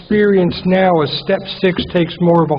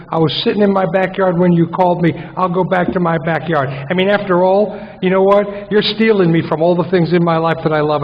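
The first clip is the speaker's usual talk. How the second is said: mock defiant rant; faster than usual. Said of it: "the old me would have said".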